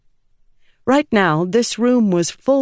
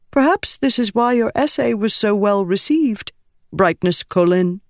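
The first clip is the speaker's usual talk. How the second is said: sincere; 6 semitones higher than usual. Acted. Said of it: "sounding completely sincere".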